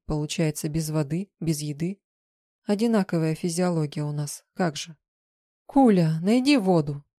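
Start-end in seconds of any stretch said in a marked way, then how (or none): 5.7-7.0 louder, urgent plea; an urgent, raised plea; pleading. A narrator's reading. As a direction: beg the creature for water. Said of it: "взмолилась я".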